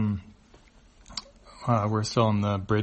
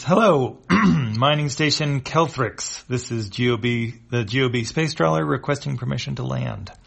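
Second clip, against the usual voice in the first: formal radio hail; 3 semitones higher, 4 dB louder than usual. Acted. Captain hails station.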